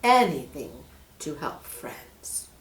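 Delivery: slow, sly snake voice. Acted. Snake pretends to help, slow and sly. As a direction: feign kindness, slowly.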